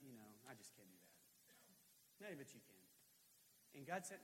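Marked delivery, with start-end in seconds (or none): 0.0-2.3 low, soft, slow giving up; acted defeated mumble to God; quiet resignation. Voices his own defeated reply.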